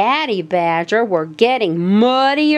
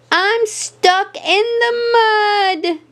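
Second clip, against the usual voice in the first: frightened; 11 semitones higher than usual. Acted. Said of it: "Daisy cried".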